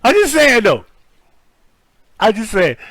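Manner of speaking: high, loud giggly protest; half laughing, insisting; giggling just saying; laughing defense. Real, not acted. Defending joke after laughing.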